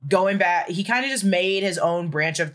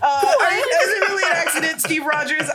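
incredulous shout; 10 semitones higher than usual. Acted. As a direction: demand it like a shocked accuser. Mock accusing Steve.

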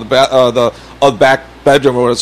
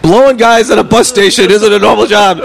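mild mock yell, slightly high; retold yell; 4 semitones higher than usual. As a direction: retort hollered at half strength, retold. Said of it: "And I yell out".

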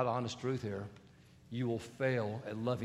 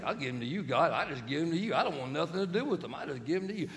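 mock petty prayer; 4 semitones higher than usual. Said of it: "here's how we're not gonna pray".

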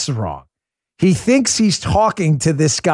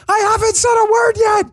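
very high, hammed-up protest; exasperated yelling, played for laughs; mock indignant shout. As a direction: imitate a wrongly accused guest yelling back. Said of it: "And he's like".

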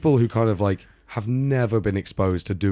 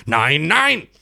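German no; 6 semitones higher, 5 dB louder than usual. Retold or imitated. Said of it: "And she's just like".

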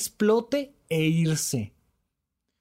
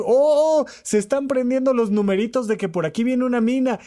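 a sharp high "oh", then quickly alert; sudden alarm; 5 semitones higher than usual. Retold or imitated. Therapist voicing his inner alarm as a friend confides, startled. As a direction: catch the danger right as it appears. Spotting a warning sign mid-chat.

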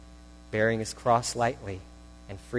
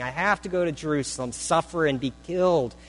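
quick, higher "I have to go" with stress on "have"; urgent necessity; 5 semitones higher than usual. Shown as a demonstration. Preacher voicing Jesus' resolve, urgent stress on "have". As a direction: press "have" as if no choice exists. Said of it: "There were no other options, Jesus is saying".

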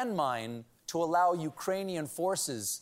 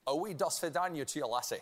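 bad fake Russian accent; mangled mock Russian accent; 4 dB quieter, faster than usual. Shown as a demonstration. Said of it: "I've even been working on my Russian accent".

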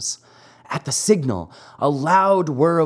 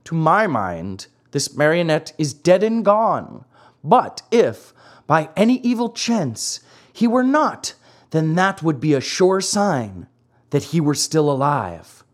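solemn pronouncement; 2 semitones higher than usual. Acted. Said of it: "solemnly pronounced".

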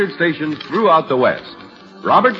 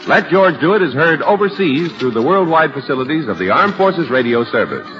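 classic radio announcer delivery; old radio announcer. Acted. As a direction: read the credits like a vintage broadcast. Announcer reads credits over music.

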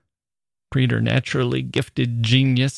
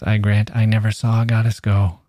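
light and airy. Shown as a demonstration. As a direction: let the line float evenly through to "go". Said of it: "That's so light and airy".

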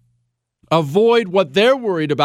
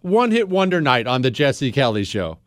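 raised announcer voice over music; radio announcer; 6 semitones higher than usual. Acted. Host announcing one-hit wonder night, raised announcer voice. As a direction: sell the show like a bright promo.

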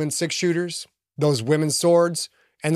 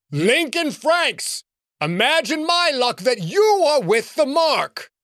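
higher and slow, grand and gloating; a wizard's voice rolling down from the sky; booming sky voice; 10 semitones higher than usual. Acted. Villain in the sky taunts Lincoln, booming and gloating. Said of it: "A booming voice from the sky rang out".

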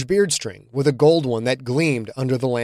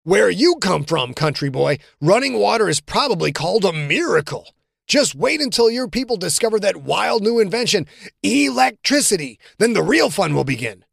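lightly voiced cocky teammate, higher; teasing teammate; 6 semitones higher than usual. John ribbing Quentin about the rookies, mock teasing. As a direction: needle the rookie with a grin.

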